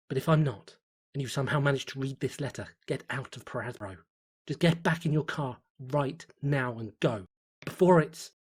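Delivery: rising to a loud, desperate plea; diary writer warning a stranger, frantic and loud; urgent warning. Acted. Desperate warning before being cut off.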